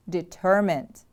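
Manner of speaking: "Determined" with the stress on TER; stress on second syllable. Shown as a demonstration. Teacher models the word for repeating, stress on TER in "Determined". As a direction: lean on the middle syllable of "Determined", then fall. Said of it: "The stress is on the second syllable".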